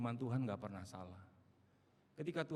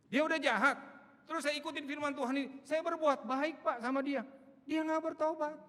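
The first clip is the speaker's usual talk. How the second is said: much higher, louder indignant complaint; complaining churchgoer; 8 dB louder than usual. Retold or imitated. Churchgoer protesting to the pastor, high and indignant. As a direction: whine that kindness got no result.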